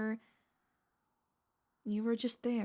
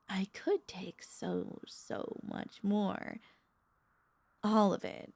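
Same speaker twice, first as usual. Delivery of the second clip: slow, half-whispered yearning; hungry longing; slower than usual. Acted. Vampire admitting she could take more from pet, longing whisper. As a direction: draw it out slowly, almost whispered.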